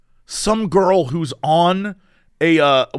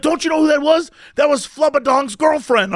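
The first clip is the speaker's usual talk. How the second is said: excited shout; 8 semitones higher than usual. Retold or imitated. Coworker bragging about the clip, high incredulous shout. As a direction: demand it like a proud fan.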